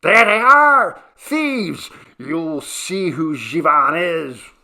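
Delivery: very loud, high threatening yell; shouting. A narrator's reading. Jivan appearing on the hill with his people, high shouting. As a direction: bellow at the thieves, drawing out the threat. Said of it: "and shouted".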